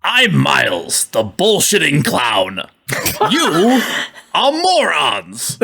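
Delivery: a hammed-up Northeastern Clue butler quote; Tim Curry Northeastern accent. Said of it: "a good Tim Curry doing a Northeastern accent".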